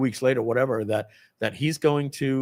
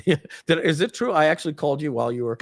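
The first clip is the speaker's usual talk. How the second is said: usual speaking voice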